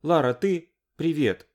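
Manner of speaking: high, tearful phone greeting. A narrator's reading. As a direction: sound as if she has been crying. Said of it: "Алинка, кажется, плакала".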